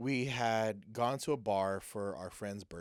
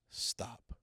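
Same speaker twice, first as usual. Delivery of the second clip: hushed warning; 6 dB quieter than usual. Retold or imitated. Retold voice in his ear.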